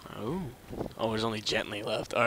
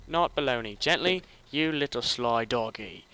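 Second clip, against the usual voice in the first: loud; 6 dB louder than usual. Real, not acted.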